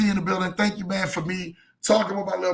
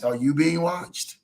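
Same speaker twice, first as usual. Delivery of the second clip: sweetly passive aggressive; slower than usual. Retold or imitated. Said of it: "And my mother-in-law voice".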